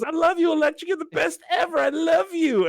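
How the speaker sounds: high, sing-song adoring chorus; gushing fans. Retold or imitated. Lobby gushing over Electric, in a mock high adoring voice.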